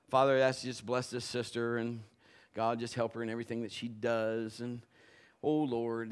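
low, even stock pastor's prayer; a routine altar prayer, recited by rote; lightly put-on pastor praying; pastoral prayer. Shown as a demonstration. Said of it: "I am going to do the pastoral".

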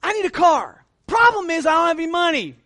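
loud, high urgent plea; pleading prayer to God. Retold or imitated. Young man loudly begging God for a car he can't afford. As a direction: beg God for help out loud. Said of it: "I just told God".

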